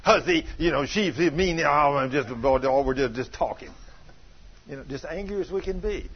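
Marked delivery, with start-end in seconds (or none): 0.0-3.7 slow, grumbling mock gossip; drawn-out, lower mock grousing; imitated evil talk. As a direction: grumble about someone behind their back. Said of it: "you start talking evil about 'em".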